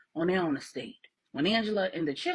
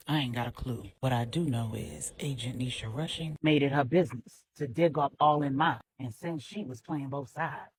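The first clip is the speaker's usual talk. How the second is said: a lightly lowered, grim man's voice; LJ, wary and grim; 7 semitones lower than usual. A narrator's reading. LJ tells Regina he has no clue, lightly voiced and grim. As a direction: say it low and guarded, a hint of a tough man.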